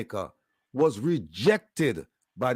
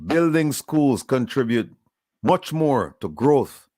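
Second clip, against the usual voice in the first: slow, deliberate restating of a quote; emphatic repeat. Retold or imitated. Host repeating the leader's quote to listeners, slow and emphatic. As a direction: spell it out slowly, phrase by phrase.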